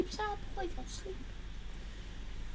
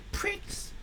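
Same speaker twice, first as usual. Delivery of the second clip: muttered insult; 2 semitones higher, 11 dB quieter than usual. Real, not acted.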